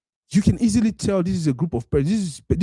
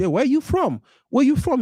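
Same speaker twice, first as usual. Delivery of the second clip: mock curious questioning; 9 semitones higher than usual. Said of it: "they can easily say".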